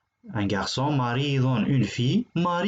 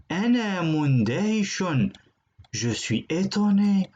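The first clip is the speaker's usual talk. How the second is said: mock amazed; 5 semitones higher than usual. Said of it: "Celui-là est étonné".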